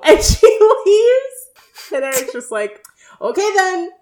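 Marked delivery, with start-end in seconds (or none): 3.2-3.9 high-pitched mock cheeriness; cheery voice. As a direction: imitate someone chirpily brushing off a rejection. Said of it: "in a cheery voice".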